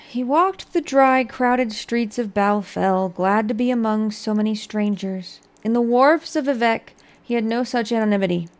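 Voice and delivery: measured storybook narration; story narration. Acted. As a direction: read it like a tale. Reads skill book aloud.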